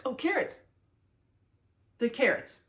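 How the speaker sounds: half-joking choked-up longing; mock emotional. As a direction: ham up a fond sigh of longing. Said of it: "I'm getting emotional".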